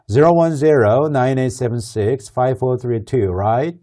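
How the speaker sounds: slow digit-by-digit read, right rising; checking back. Shown as a demonstration. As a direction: read the number back slowly to confirm. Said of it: "다시 한번 반복을 해서 물어봐요".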